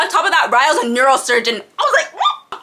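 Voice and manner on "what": much higher, stunned rising what; surprised what. Retold or imitated. Learning Ryle is a neurosurgeon, a stunned high what. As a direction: sound floored.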